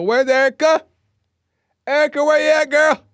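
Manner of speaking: put-on high, loud calling for a missing girl. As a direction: call her name across the street, desperate. Mom calling out for missing daughter.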